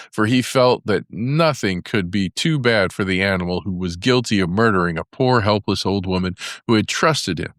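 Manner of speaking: usual speaking voice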